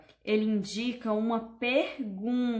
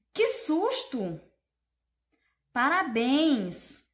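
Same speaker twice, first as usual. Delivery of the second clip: "Que susto! Parabéns!" drawn out slowly with raised pitch; exclamation intonation; 3 semitones higher, much slower than usual. Shown as a demonstration. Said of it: "Olha a forma que a tia leu, a entonação".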